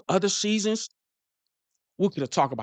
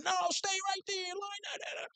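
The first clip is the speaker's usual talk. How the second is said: imitating Brady's orders; 12 dB quieter than usual. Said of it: "He's telling everybody".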